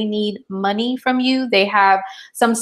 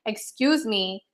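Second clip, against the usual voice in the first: much softer, slow and pointed; indignant excuse me; 8 dB quieter, slower than usual. Retold or imitated. Mom to son wanting socks, softly indignant. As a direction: quietly put the kid in his place. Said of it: "And I'm like".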